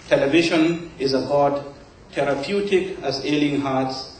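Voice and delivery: measured poem recital with pauses between phrases; poetry reading. Acted. Poet reads own poem to a live audience, measured recital. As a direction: recite it line by line, letting each phrase settle.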